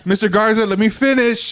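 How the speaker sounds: mock-stern interruption; retold exasperated judge. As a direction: cut in like an impatient judge. Judge cuts off his protest.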